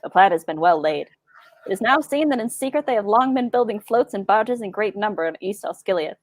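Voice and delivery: 1940s radio announcer. Acted. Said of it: "I had a good nineteen forties radio announcer voice".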